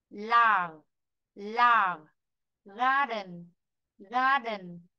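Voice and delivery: careful teacher's vocabulary read-out; each word said neatly in isolation, falling at the end; model word reading. Shown as a demonstration. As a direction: read the list for pupils to follow. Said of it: "Chúng ta lắng nghe cô đọc và nhẩm đọc theo".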